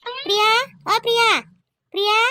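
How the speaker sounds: mother calling a name to wake someone. Acted. Mother calls sleeping daughter-in-law, calling out. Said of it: "तुझी आई किती ओरडत आहे जोराजोराने".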